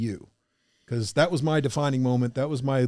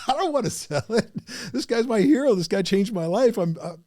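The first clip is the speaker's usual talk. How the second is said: high, loud panicky protest; playful mock panic about meeting a hero; mock terrified fanboy; 8 semitones higher, 4 dB louder than usual. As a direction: squeal like a starstruck fan begging off.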